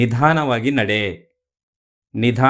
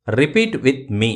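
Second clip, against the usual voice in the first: slow teacher cue; much slower than usual. Shown as a demonstration. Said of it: "teacher cues learners to repeat".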